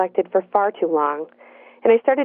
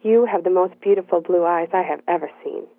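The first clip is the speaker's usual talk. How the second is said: light Boston accent, lightly voiced; a hint of a Boston guy's accent. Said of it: "in his native Boston accent".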